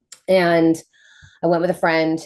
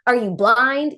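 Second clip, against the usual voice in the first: higher, baffled questions; incredulous disbelief; 7 semitones higher than usual. Retold or imitated. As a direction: play the stunned disbelief, voice up. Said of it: "And I was like".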